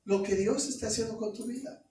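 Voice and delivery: ordinary delivery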